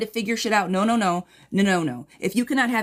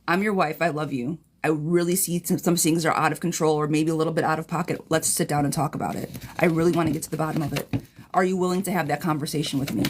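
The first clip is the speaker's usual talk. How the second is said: loving and gentle; 3 semitones lower than usual. Pretend. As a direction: coax him gently to talk. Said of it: "come of a place of love and grace".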